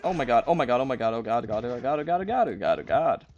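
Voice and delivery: panicked repeated oh my god; terrified gibbering. Real, not acted. Battle nearly goes very badly.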